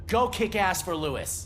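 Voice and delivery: rally her partner's resolve with each word; fierce send-off. Real, not acted. Officer sending partner off to fight for Lewis, firm and slow. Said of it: "instead I'll say".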